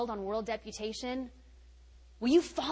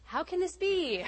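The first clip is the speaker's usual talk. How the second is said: laughing; 4 semitones higher, 3 dB quieter than usual. Retold or imitated. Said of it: "And then I said".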